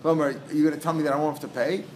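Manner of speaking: doubtful question rising on "pay"; "pay" left up in the air as a question; asking as a question. Acted. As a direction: ask in disbelief, lifting "pay". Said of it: "if he's asking as a question".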